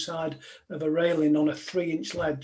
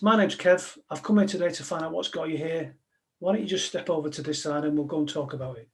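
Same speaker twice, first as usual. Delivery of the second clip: practised calming line. Shown as a demonstration. Negotiator showing the audience his practised opener, steady. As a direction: deliver it like a rehearsed script. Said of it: "And the line was this".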